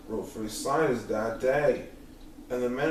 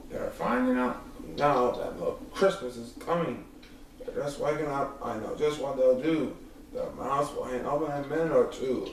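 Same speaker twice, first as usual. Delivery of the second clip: Grinch voice. Acted. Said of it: "he was grinchiously humming".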